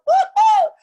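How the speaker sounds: loud, sky-high woo-hoo cheer; joyful high whoop. Real, not acted. Teacher cheering her class after the rap, whooping loudly. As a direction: let out a delighted whoop.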